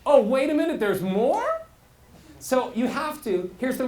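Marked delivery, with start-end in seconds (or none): 0.1-1.7 louder, higher, laughing mock surprise; a listener jolted awake; higher and louder, wait-what delivery; surprised. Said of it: "surprised listener".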